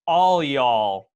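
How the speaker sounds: slow ALL y'all, leaning on all; all y'all, drawn out with weight on all; emphatic plural. Shown as a demonstration. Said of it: "to emphasize the, the plural".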